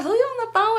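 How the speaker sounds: high-pitched playful drunk-girl imitation; mock drunk girl. Girl pestering her about the call, fake-drunk imitation. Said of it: "acting like she was so drunk".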